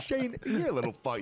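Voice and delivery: high-pitched exasperated dad impression; mock angry dad. Dad rebuking his son for challenging him, mock exasperation. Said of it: "He's like".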